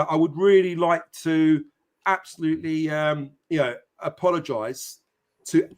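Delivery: a hammed-up Irish Conor McGregor taunt; teasing the chat in an Irish Conor McGregor voice. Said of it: "That's my best Conor McGregor voice".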